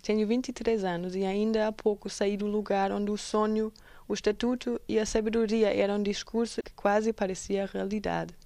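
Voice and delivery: measured Portuguese poem reading; poem recitation. Acted. Presenter reciting an activist's poem to listeners, poem recitation. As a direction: read it out as spoken verse.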